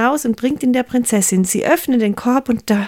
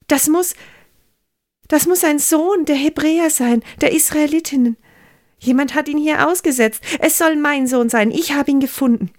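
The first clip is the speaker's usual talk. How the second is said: higher, wondering princess voice; delighted princess; 5 semitones higher than usual. Acted. Princess speaks over the foundling baby, higher and delighted. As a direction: marvel at the child and claim him.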